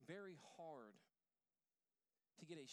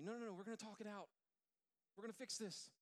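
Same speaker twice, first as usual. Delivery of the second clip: fast, higher and louder insistence; insistent pleading; 6 semitones higher, 4 dB louder than usual. Retold or imitated. Husband insisting to Tara, fast and urgent. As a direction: refuse to let it go.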